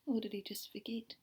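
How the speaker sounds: unvoiced whispered question. Real, not acted. Teacher asking the class, whispering the question. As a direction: drop to a hush.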